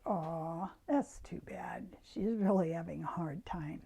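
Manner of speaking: hushed, kind inner voice; sympathetic whisper. Retold or imitated. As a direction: murmur it to yourself with gentle sympathy. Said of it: "just like".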